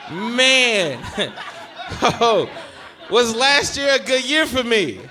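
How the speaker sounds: can't get the words out for laughing; cracking up. Real, not acted. Comic cracking up at his own Bill Cosby joke.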